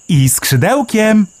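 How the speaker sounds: very high, slow chirpy bird voice; Melek the sparrow. A narrator's reading. Sparrow Melek marvelling underground, high chirpy voice. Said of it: "uzupełnił Melek".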